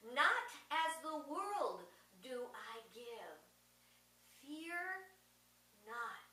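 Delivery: preacher reciting the words of Jesus to the congregation; scripture reading. Acted. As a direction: intone each phrase with long pauses. Quotes Jesus in sermon.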